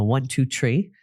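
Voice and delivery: one, two, tree in a light Irish lilt; Irish counting. Shown as a demonstration. Host showing how the Irish mother counted, Irish lilt. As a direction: say tree with a hard t, no th. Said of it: "that's how they count".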